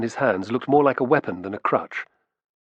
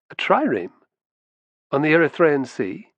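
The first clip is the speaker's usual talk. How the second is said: higher, scornful disbelief; scoffing; 5 semitones higher than usual. Acted. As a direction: scoff at the idea. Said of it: "he scoffed".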